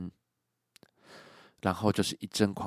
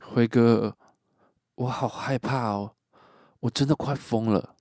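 a touch of helpless fear; mildly scared, pleading quote; 3 semitones higher than usual. Retold or imitated. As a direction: voice him as lost and pleading. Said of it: "小雨又开始无助的说".

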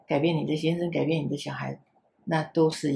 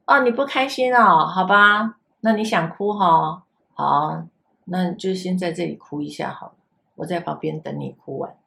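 comforting tone. Retold or imitated. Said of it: "我们就换一个方式".

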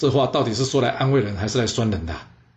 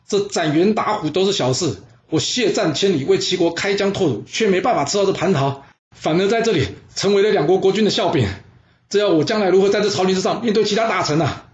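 气愤控诉；略高声调的愤慨质问；委屈又气愤地诉说功劳被轻视；田开疆不甘心地向君臣控诉，带着几分激愤; 6 semitones higher than usual. Acted. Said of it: "气得说".

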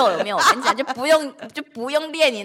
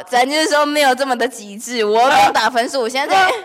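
louder, higher laughing plea; laughing protest; 3 semitones higher, 6 dB louder than usual. Retold or imitated. Asking the sister not to grade her card, laughing protest. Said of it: "我就说".

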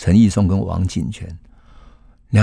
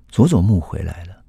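usual speaking voice

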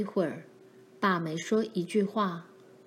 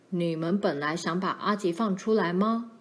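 mildly stern father's question; a hint of a forbidding father; slightly menacing; 2 semitones lower than usual. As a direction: ask it with a touch of menace. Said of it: "他的口气听起来有点可怕".

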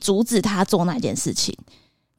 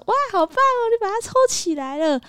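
mock praise; 13 semitones higher than usual. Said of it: "你刚刚不是说".

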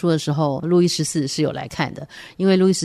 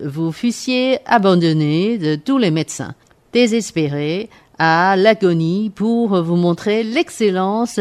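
pompous quack doctor, grandly declaiming; haughty aristocratic french; 3 semitones higher, slower than usual. Acted. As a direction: lord it over the patient like a boastful doctor.

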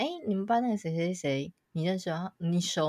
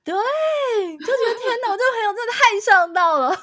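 laughing excitedly; 8 dB louder than usual. Real, not acted. Telling a friend how her buddy helped her crush, laughing with delight. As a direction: gush with delight as you laugh. Thrilled friend set up the date.

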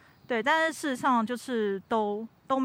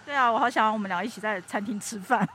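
muffled behind a mask; through a face mask. Real, not acted. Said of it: "我们现在是戴着口罩录音的哦". (戴着口罩说话)

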